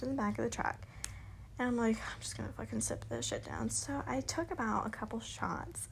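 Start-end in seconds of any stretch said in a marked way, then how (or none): 2.0-3.7 hushed, fast whisper to herself; a sneaky plan whispered; whispered aside. Retold or imitated. To herself in the truck, quick whisper.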